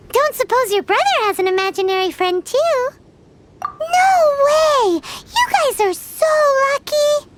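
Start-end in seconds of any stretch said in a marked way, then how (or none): 3.6-7.3 loud, amazed cry of disbelief; excited shout. Acted. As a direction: burst out in delighted shock. Excited disbelief about brother.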